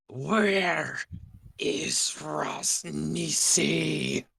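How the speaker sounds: maniacal scream. Acted. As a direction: scream it like a maniac, dragging out the words. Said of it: "maniacal voice just scream".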